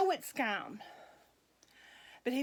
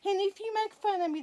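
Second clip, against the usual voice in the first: high laugh spilling into the words; 9 semitones higher, 5 dB louder, faster than usual. Real, not acted. Admitting viewers will tease her, laughing. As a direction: laugh at yourself, then keep talking. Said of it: "I guess I'm gonna be made fun of now".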